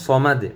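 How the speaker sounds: "সমাদ" ending on a bounced d, no final u; stopped ending. Shown as a demonstration. Teacher shows the pause form, "সমাদ" stopped on d. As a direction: halt "সমাদ" on an echoed d. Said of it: "এখানে অফ করলে".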